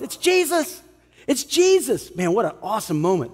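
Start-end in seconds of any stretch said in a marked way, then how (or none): 0.0-0.8 much higher, startled realization; sudden recognition. Retold or imitated. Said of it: "they realize". 1.3-2.1 higher, wondering echo; awed repeat. Retold or imitated. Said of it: "they realize".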